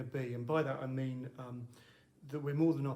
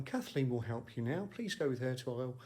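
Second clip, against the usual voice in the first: lightly voiced shop announcement; a hint of a sing-song store assistant; put-on shop assistant. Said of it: "my dad's voice didn't sound like that".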